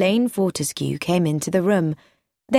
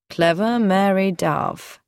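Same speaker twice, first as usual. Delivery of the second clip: wry; slower than usual. Acted. Lance's voice.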